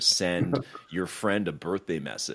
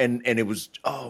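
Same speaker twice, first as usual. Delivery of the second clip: ordinary delivery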